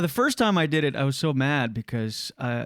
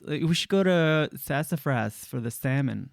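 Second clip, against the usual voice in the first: stretched, sibilant S on so. Retold or imitated. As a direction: hiss the S in Sassafras. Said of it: "a straight person has this".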